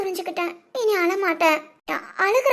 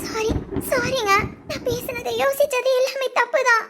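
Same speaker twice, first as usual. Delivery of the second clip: tearful plea; 3 semitones higher than usual. Acted. Wife begs forgiveness.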